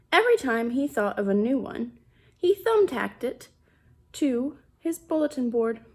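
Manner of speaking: put-on reading a picture book to children; story narration. A narrator's reading. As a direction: tell it plainly like a storybook. Reads picture book aloud.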